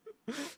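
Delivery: high, soft laughing fit; helpless high giggle. Real, not acted. Cracks up.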